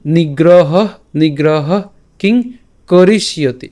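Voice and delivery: "নিগ্রহ", "কিং", "করিষ্যতি" separated by pauses; pronunciation model. Shown as a demonstration. Teacher giving the last line word by word, careful "করিষ্যতি". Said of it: "এখানে একটু খেয়াল করি".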